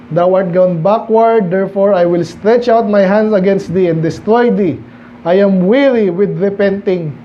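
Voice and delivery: slow, deliberate Bible reading; scripture reading. Acted. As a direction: weigh each word of the verse. Reads scripture aloud. (mabagal na pagbasa ng Bibliya)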